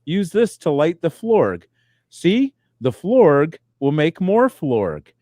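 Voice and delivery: patient mock-dad lesson; dad teaching a child. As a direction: show the kid slowly, word by word. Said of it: "we teach 'em, we, we, like".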